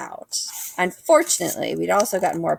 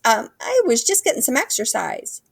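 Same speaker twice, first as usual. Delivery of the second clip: squeaky voice; 6 semitones higher than usual. Acted. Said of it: "came out like little squeaks".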